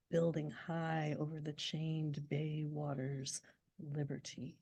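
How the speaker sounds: very slow, deliberate recital; poem recital. Shown as a demonstration. Poet repeating the proem for the audience, slow and deliberate. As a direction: stretch every phrase like a tolling bell. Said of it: "I'm just gonna say that again".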